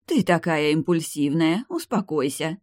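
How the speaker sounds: ordinary delivery, nothing marked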